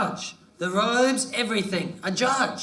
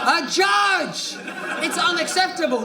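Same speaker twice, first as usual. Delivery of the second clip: outraged shout; 6 semitones higher than usual. Acted. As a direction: cry it out in disbelief. Outraged exclamation.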